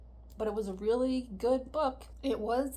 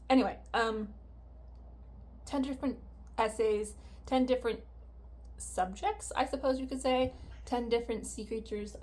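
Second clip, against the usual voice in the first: cough drop in mouth. Real, not acted. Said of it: "cough drop in my mouth".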